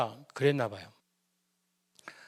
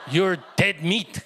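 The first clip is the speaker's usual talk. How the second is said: very slow, louder menacing "dead meat"; mock threat; 4 dB louder, much slower than usual. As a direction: drag it out like a movie villain threatening the kid. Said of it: "넌 오늘 죽었다고".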